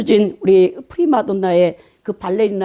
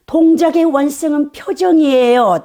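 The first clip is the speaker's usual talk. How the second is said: raised, testy correction; irritated; 5 semitones higher, 4 dB louder than usual. Retold or imitated. Ballet professor answering a visiting lecturer, mock irritated and raised. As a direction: imitate an annoyed ballet professor. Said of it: "엄청 짜증 섞인 말로".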